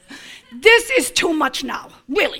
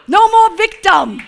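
rising declaration; 4 semitones higher, 6 dB louder than usual. Shown as a demonstration.

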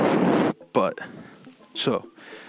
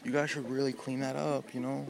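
gentle, soft-spoken chef; 5 dB quieter than usual. Pretend. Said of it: "Gordon Ramsay doesn't walk into the kitchen and say".

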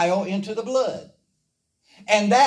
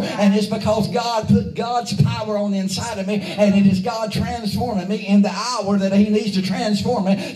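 driving pulpit cadence; building preaching. Real, not acted. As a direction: build phrase on phrase to a punchline.

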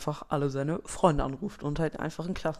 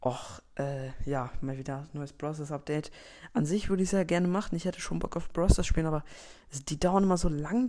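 procrastinating. Acted. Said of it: "keinen Bock aufs Update hat".

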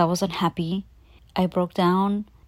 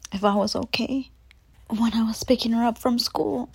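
higher, halting voice on the edge of tears; getting emotional; 3 semitones higher than usual. Real, not acted. Mother recalling her daughter's concern, getting emotional. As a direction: fight back real emotion, with long pauses. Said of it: "I'm gonna get emotional".

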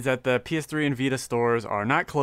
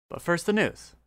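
announcer tease; 5 semitones higher than usual. Shown as a demonstration. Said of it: "You like that?".

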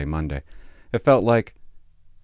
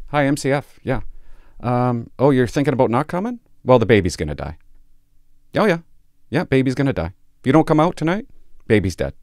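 mock pushy call; 3 semitones higher, 4 dB louder than usual. Acting his call to MCF.

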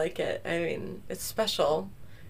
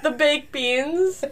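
surprised; 7 semitones higher, slower than usual. Real, not acted. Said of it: "friend echoes the odd phrase".

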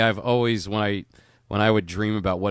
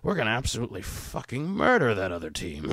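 put-on drunk grandfather voice. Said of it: "the drunk grandfather who's like".

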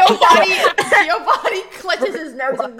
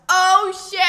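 a blurted "Oh, shit!" into dead silence; a mild blurt that cuts the silence; louder than she means; 4 semitones higher than usual. Acted. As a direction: slip out a swear too loud. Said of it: "a lot louder than she means to".

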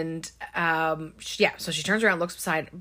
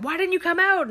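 high, acted-out incredulous demand; retold high-pitched outburst; mock exasperated yell; 11 semitones higher, 4 dB louder, faster than usual. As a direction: imitate a frantic scolding. Acted exasperated demand after shooting him.

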